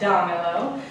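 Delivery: "damelo" slowly, emphasis on "da"; stress on first syllable. Shown as a demonstration. Teacher showing the word breaks the rule, stress on "da" in "damelo". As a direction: lean on the "da" of "damelo". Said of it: "when we pronounce the word".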